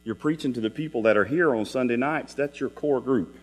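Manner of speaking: an audience member silently grumbling at the preacher; inner grumble. Retold or imitated. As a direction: grumble it quietly like a private thought. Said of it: "and I'm like".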